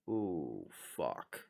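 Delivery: low, hushed "oh no" reaction; quietly voiced realization of trouble; acted dread. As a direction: sink into a soft, low curse. Acts out sudden dread on seeing danger.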